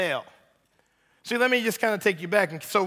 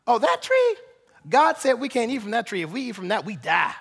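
Eve voice. Retold or imitated. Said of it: "That's my Eve voice".

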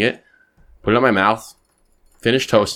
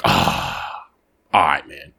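lightly voiced drunk guy; much slower than usual. Voicing the drunk man.

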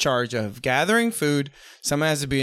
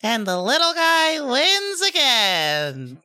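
high, slow put-on accent; Cockney-style victory gloat; 9 semitones higher, much slower than usual. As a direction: gloat slowly in a silly accent. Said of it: "stick with an accent".

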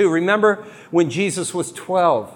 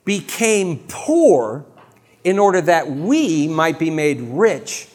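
slow solemn reading; slower than usual. Acted. Solemn scripture quote.

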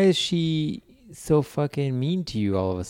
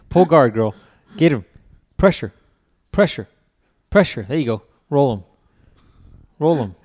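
louder ringside calls to a fighter; mock coach yelling; 8 dB louder than usual. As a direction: shout pressure like a coach cheering on.

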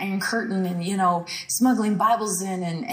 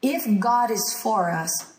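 doubting reading; slower than usual. Shown as a demonstration. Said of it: "we read it like this".

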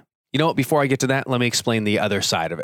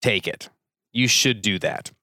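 firm motherly nudge; 2 semitones lower than usual. Shown as a demonstration. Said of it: "What they're really saying".

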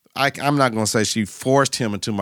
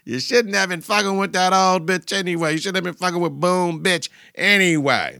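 Meech scolding; 5 semitones higher than usual. Retold or imitated. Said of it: "that's what Meech told him".

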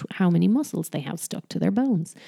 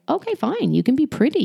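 indulgent concession; 7 semitones higher than usual. Acted. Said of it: "So you can tell her".

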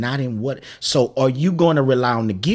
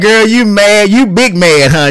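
teasing; 5 semitones higher, 8 dB louder than usual. Retold or imitated. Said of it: "I like".

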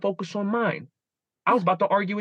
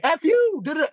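mock road rage yell; 10 semitones higher, 5 dB louder than usual. Retold road rage curse.

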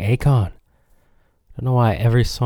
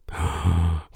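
mock gasp; 5 semitones lower, 4 dB quieter than usual. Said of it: "Gasp, I know".

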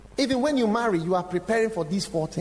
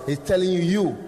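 loud mocking accuser; devil taunting; 3 semitones higher, 5 dB louder than usual. Devil mocking a preacher among shepherds, loud taunt. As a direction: jeer it out as the devil.

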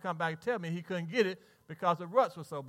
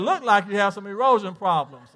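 imitating the white guy; 6 dB louder than usual. Pastor mimicking the man from the truck, light put-on voice. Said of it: "I shouldn't talk like that".

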